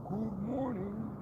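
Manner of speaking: slow, high stretched good morning; drawn-out greeting. Real, not acted. Greeting his viewers with a stretched-out good morning. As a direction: sing it out long and lazy.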